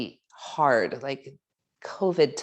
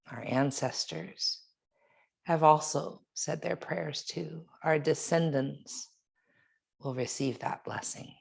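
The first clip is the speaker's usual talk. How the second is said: guided meditation. Real, not acted. Yoga teacher leading students in a reflection on breath and water, meditative. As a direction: guide them reflectively, leaving long pauses between phrases.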